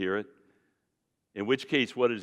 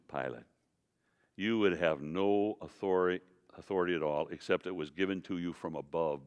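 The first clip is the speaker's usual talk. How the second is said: soft, lower, consoling; gentle Jesus; 4 semitones lower, 4 dB quieter than usual. Acted. Jesus gently telling Pilate he has no authority. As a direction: take him by the shoulders and reassure him. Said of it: "I like to picture ... saying to him".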